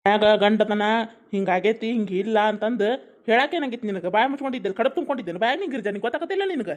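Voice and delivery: mildly heated husband's reprimand; scolding. Acted. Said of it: "ಯಾಕ್ ನೀನ ವೈನಿಗ್ ಬೈಯಾಕತ್ತಿ".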